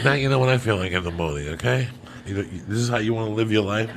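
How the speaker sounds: mild Caribbean patois lilt, imitating mom; a hint of patois accent on the mom's line. Son retells mom's parting line in light patois accent. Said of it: "But she said it very pate patois".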